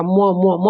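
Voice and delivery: teacher showing the students how म sounds; demonstrating the sound म. Shown as a demonstration. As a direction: hum म twice, lips closed, through the nose. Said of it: "म बोलिएगा तो नाक पे जोर पड़ता है".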